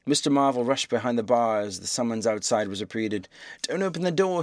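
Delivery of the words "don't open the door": panicked scream. A narrator's reading. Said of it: "he screamed".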